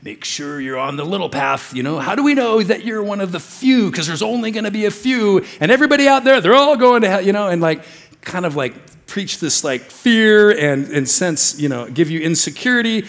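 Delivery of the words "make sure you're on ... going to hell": mock hellfire preacher. Pastor mocking a fear preacher for the congregation, rising to a mock shout. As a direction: imitate a fear-mongering preacher, building to a shout. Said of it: "you could see a preacher getting up here going".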